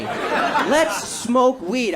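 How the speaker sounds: repeating the buddy's slow invitation; slow stoner drawl. Retold or imitated. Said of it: "That's what the fuck he said to me".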